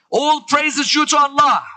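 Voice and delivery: high, ringing declaration; defiant praise. Acted. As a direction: proclaim it to the whole crowd. Zainab's praise repeated with defiant conviction.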